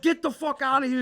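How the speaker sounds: high-pitched, urgent mock outburst; retold angry order. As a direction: imitate a cousin ordering someone out. Cousin throws him out, retold.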